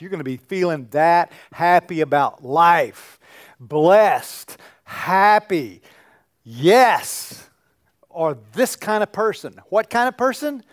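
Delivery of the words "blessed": "Blessed" said louder, falling; stress on blessed. Shown as a demonstration. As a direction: land firmly on "Blessed". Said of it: "emphasize the word blessed".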